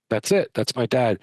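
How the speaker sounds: voicing a woman's sudden certainty, a touch tearful; retold joyful exclamation. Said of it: "She goes".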